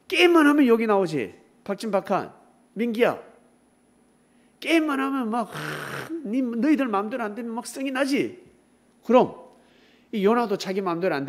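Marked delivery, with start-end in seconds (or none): 5.5-6.1 heavy, voiceless huff; exasperated huff. Pretend. Kids losing at a game, exasperated huff. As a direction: huff out pent-up frustration.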